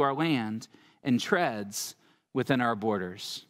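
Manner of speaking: measured, solemn reading of scripture. Acted. Pastor reading Micah chapter five to the congregation, solemnly.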